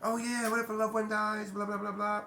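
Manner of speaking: lightly voiced doubtful listener; half-hearted mock of a skeptical viewer; mocking skeptics. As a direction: toss off the objection like a doubter. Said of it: "people are probably saying".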